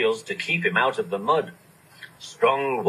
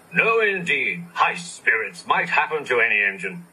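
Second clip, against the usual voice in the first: huffy. Acted. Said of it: "replied Gordon huffily".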